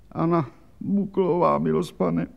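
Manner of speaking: high, frightened answer with the voice dropping away; frightened squeal. Acted. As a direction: squeak out her name in fright. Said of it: "zaječela poctivá žena".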